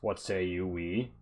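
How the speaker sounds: a lightly voiced gruff mercenary chief; bugbear boss. Bugbear leader sizing up the party, lightly voiced and bluff. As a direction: boast a little, then make the offer.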